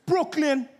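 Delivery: high, loud mock holler; random shout. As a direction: shout it out to the whole airport. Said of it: "shouting random things".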